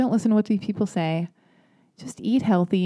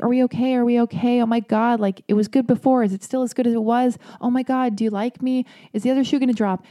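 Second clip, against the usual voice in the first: higher, needy rapid-fire worrying; mock clingy panic; 5 semitones higher than usual. To her boyfriend, asking if they're okay, higher mock anxious pleading. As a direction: fret at him like an anxious girlfriend.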